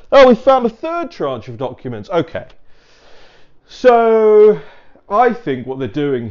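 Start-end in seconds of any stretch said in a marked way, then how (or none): 0.1-2.1 higher, louder mock confession; mock official. Officials admitting more documents, in a higher, louder mock voice. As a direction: sing it out like a sheepish official.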